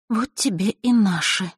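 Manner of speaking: bitter. Acted. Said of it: "горько подумала она".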